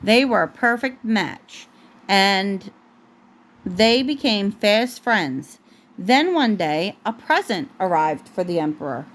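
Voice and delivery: gentle storybook read-aloud; picture-book narration for a toddler; reading to a child. Acted.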